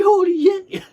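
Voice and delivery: high, loud burst of astonishment; retold amazement. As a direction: blurt it out, thrilled and shocked. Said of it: "You're like".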